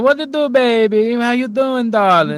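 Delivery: put-on slow, loud, drawn-out Cajun accent. Imitating a Cajun uncle's sayings: imitating uncle's Cajun accent. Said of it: "I can't do his accent".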